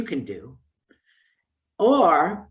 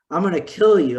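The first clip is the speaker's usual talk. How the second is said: mock child threat; 6 dB louder, faster than usual. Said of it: "They might say".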